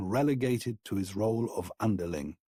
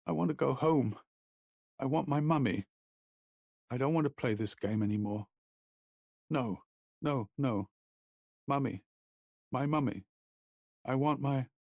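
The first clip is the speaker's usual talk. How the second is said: put-on frightened child; 4 semitones higher than usual. A narrator's reading. Frightened child begging for mother.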